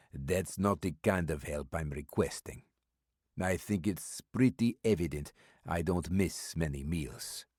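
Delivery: put-on mysterious old stranger with an Eastern European accent, amused; calm and sly, a heavy foreign accent; stranger's accented voice. Old stranger brushing off Maddox's offer of a meal, in an Eastern European accent.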